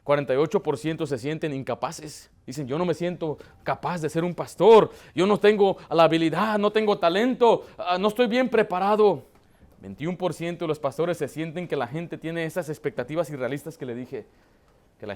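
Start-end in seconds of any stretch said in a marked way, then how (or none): 2.7-9.3 pastors' lament. Retold or imitated. Voicing discouraged pastors' complaint.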